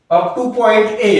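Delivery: slowed right down so students can write it; slow teacher dictation pace. Shown as a demonstration. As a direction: spell it out slowly, word by word.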